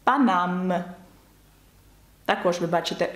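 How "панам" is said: "Панам" with oral vowels and sounded M; non-nasal vowel. Shown as a demonstration. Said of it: "тому це не носовий звук".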